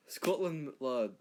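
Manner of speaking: lightly put-on Scottish lad talk; mock Scottish accent. Comic Scot calling out Scotland in a light brogue. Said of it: "Number one, Scottish".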